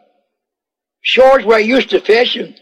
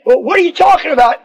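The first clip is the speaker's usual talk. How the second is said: fast, high disbelieving question; incredulous buddy; 6 semitones higher, faster than usual. Acted. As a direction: scoff at Simon's story.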